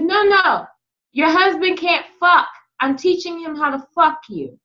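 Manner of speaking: matter-of-fact, emphatic retelling; straight out. Retold or imitated. Telling the wife about her husband, straight out. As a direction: say it straight out, unembarrassed. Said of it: "I said it literally straight out like that".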